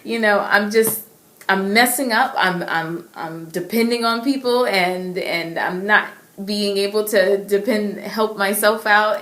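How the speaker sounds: reliving a desperate outburst; despair. Retold or imitated. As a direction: pour out self-blame to God in despair. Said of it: "I was in despair".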